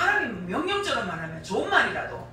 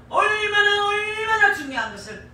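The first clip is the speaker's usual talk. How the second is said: emphatic preaching; 11 semitones higher, 6 dB louder than usual. Real, not acted.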